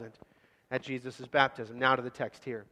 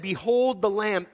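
louder and higher, slow and ringing; proclaimed behold; 5 semitones higher, 5 dB louder, slower than usual. Shown as a demonstration. John the Baptist announcing Jesus to the crowd, slow ringing proclamation. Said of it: "when he said".

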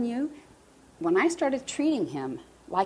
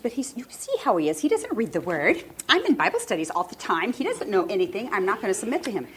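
indignant protest; 3 semitones higher than usual. Retold or imitated. Acts out her argument with God.

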